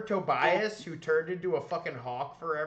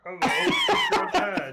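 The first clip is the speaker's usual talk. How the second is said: goofy dad voice; 5 dB louder than usual. Pretend. Voicing in-game dad on phone.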